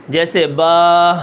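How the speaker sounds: slow با ending in an audible breathy ha; غلط: با کے آخر میں ہا; wrong ha ending. Shown as a demonstration. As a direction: show the error: با with a trailing h. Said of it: "آخر میں آتا ہے ہا".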